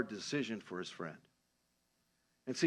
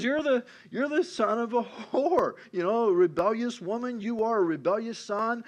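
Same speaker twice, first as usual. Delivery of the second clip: retold fury; 7 semitones higher, 3 dB louder than usual. Saul berating his son Jonathan, acted-out fury. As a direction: act out an enraged father's insult. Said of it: "Saul got furious with Jonathan".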